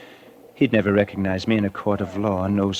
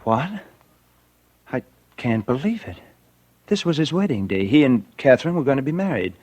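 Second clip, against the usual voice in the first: higher, stunned reaction; man told his friend has been murdered, shocked; shocked disbelief; 4 semitones higher than usual. Acted. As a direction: react as if you can't take it in.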